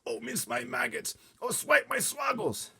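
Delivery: slow, high, loud lament; distressed wail. A narrator's reading. Giant despairs at the nightmare he caught, wailing. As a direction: wail it out in anguish.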